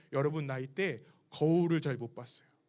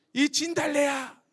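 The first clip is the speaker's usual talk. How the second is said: slow, loud, higher curse hurled upward; teen cursing at the cross, slow loud yell; 7 semitones higher, 5 dB louder, slower than usual. Retold or imitated. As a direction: shout it slowly at the cross. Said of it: "이렇게 소리를 질렀어요".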